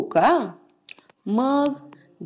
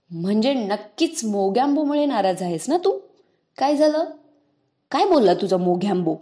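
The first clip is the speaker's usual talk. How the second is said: angry; 2 semitones higher, 4 dB louder than usual. Acted. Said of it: "पुन्हा रागात विचारणा झाली".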